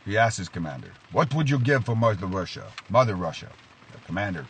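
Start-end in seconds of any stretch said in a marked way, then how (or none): 1.1-3.5 hammed-up Russian general testing his man; cheesy Russian accent. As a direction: put on a light, mock Russian accent. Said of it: "cheesy Russian accent".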